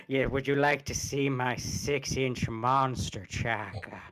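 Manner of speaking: a lightly done, knowingly bad grand movie voice; bad Orson Welles. Reading a cringe fanfic to his future girlfriend, in slow mock-grand voice. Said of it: "It was a really bad impression".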